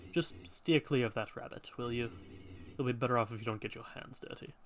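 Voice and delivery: a hint of a solemn old guardian; hooded man voice.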